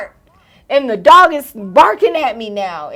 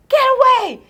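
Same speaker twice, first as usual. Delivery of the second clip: high-pitched retold yell; mock-frantic high call; shooing the dog; 13 semitones higher than usual. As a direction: shoo it off in a high voice.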